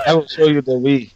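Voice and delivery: jokey put-on Wakandan accent; mock Wakandan accent. Co-host plays along for laughing friends, mock Wakandan accent. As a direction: offer guidance in a pretend Wakandan accent. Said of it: "What is your Wakandan name?".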